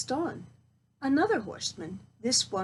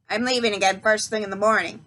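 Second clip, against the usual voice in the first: put-on louder bossy old witch; witch announcing; 6 dB louder, faster than usual. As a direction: lay down the law like a crone. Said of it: "she announced".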